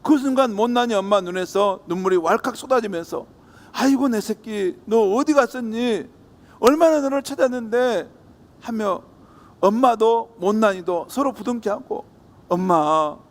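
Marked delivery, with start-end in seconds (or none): 3.7-8.1 tearful relief. Acted. Mother reunites with child, tears.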